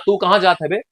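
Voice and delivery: demonstrated Bundeli question; Bundeli dialect. Shown as a demonstration. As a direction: ask it in a Bundeli accent. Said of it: "ये हो गया आपका बुंदेली". (बुंदेली लहजे में सवाल)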